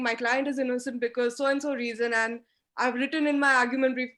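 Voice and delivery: fast, run-on "My client is innocent because so-and-so reason" with no pause; rushed. Shown as a demonstration. Coach mocking a student who rushes the argument, run-on and hurried. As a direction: rattle it off without a breath, the wrong way. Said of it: "Do not start running into the argument".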